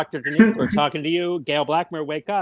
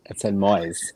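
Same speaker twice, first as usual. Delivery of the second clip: unvoiced hush on moist; whisper; 6 semitones lower, slower than usual. Shown as a demonstration. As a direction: whisper it slowly. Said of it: "It doesn't say moist".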